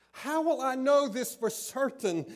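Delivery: put-on a stubborn old man insisting on proof; loud insistent demand. Zacharias loudly pressing the angel for proof.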